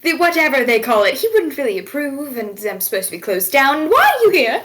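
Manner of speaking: sweetly polite hostess turning sharp; a tavern keeper glaring at Patrick, mock-polite then rising. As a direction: play an innkeeper forcing manners through a glare. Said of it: "she kinda glares at Patrick and goes".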